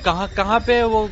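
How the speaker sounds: high, loud, hurried hunt for the spot; urgently looking for where it is; frantic searching. Real, not acted. Gamer hunting the level, frantic and loud. Panicked searching during gameplay.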